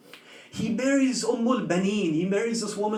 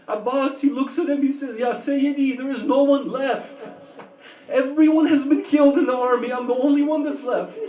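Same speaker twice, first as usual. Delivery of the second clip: tearful pleading; 3 semitones higher, 4 dB louder than usual. Acted. Grieving martyrdom dialogue, voice rising.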